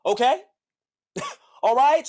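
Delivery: laughing through okay, all right. Real, not acted. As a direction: laughs at own story, rising. Laughing at own point.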